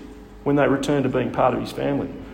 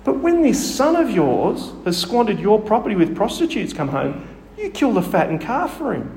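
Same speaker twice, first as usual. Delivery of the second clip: a touch of bitterness in the reading; lightly voiced resentful elder son; mild resentful complaint; 5 semitones higher than usual. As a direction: read the grievance with restrained edge. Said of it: "You can hear the vitriol in his voice".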